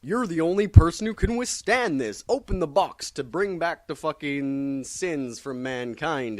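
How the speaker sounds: high, loud urgent plea, then slowing; hammed-up dramatic command; Pandora's plea. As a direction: voice Pandora pleading with Superman. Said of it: "Pandora's like".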